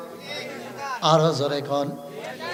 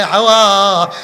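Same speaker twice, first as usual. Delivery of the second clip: low, softer chanted question; reproachful question, intoned low; Adam calling Hawa; 8 semitones lower, 5 dB quieter than usual. Retold or imitated. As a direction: call to her in a subdued sing-song. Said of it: "হাওয়াকে ডাক দিয়ে কয়".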